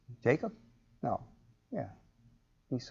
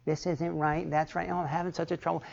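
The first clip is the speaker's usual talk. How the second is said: mock complaining; 3 semitones higher, 8 dB quieter than usual. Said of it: "Just whining".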